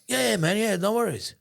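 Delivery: high, loud retold reassurance; emphatic reassurance. Seatmate waves away the foreigner's concern, emphatic reassurance. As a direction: imitate an eager, no-problem reply.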